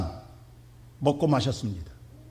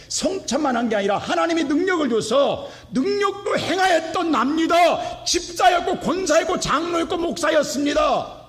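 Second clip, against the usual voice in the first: preaching at full force; 10 semitones higher than usual. Acted. Pastor urging hearers at the gate of salvation. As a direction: drive it home to the congregation.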